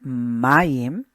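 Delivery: "Mayim" with the stress on MA, rising at the end; teacher marking the stress in "Mayim"; accent on mayim. Shown as a demonstration. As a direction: push the MA of "Mayim". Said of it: "Here's the accent mark".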